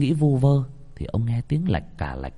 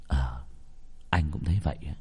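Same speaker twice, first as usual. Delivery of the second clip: hushed reply; 6 semitones lower, 9 dB quieter, faster than usual. Acted. Husband answers in bed.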